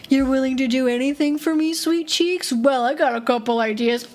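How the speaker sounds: a hint of a sleazy cop, leering. Crooked cop leering at the student, smug and sleazy. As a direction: lean in with a smug leer. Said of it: "And they're like".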